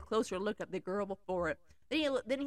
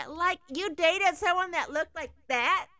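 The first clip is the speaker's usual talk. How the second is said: gasping; 6 semitones higher, 3 dB louder than usual. Acted. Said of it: "Gwenelle gasped".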